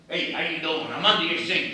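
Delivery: loud, rough Brooklyn plumber; Brooklyn Italian plumber. Acted. Actor imagining a rough plumber for an audition, loud Brooklyn tough. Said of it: "Italian plumber from Brooklyn".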